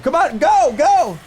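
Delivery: high loud "go" urging; loud frantic urging; urging shout. Retold or imitated. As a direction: yell at them to hurry.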